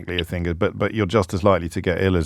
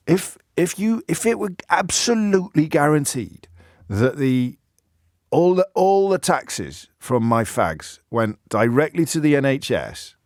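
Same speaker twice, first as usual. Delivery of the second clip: lightly voiced, higher and slow, an odd drifting accent; imitating Bob the taxi driver; 6 semitones higher, slower than usual. Host imitating his old taxi driver Bob, mock accent. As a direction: put on Bob's strange accent. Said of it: "he once said to me".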